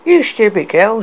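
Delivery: high scornful snap; spat. A narrator's reading. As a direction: spit the insult. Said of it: "spat Crustacean".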